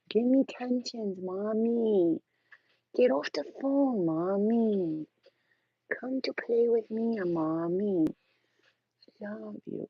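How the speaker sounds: put-on high, childlike dog voice begging for attention; voicing her dog. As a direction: play the needy puppy calling mommy. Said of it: "This is her".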